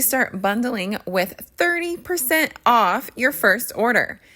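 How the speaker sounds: polished, emphatic sponsor read; upbeat scripted promo delivery; podcast ad read. Acted. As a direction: sell it with punched key words. Reads a sponsor ad.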